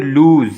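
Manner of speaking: लूज with a long, drawn-out ऊ and a final z; long vowel. Shown as a demonstration. Teacher demonstrating the long vowel to students, लूज drawn out. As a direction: stretch the ऊ in लूज. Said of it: "हमने लंबी की है sound को".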